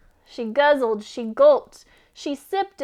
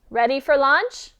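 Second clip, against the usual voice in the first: calling out; 7 dB louder than usual. Acted. Goat calling out to hen.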